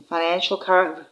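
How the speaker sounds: breathless, running out of air; words squeezed on a short breath. Real, not acted. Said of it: "whew, I'm out of breath".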